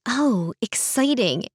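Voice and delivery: slow, playful mock excitement; teasing. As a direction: draw it out teasingly. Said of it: "Avery teased".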